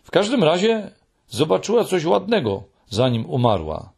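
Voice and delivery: a high little voice near tears; lekko drżący, wyższy głos; trembling voice. A narrator's reading. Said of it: "rzekł Muminek drżącym głosem".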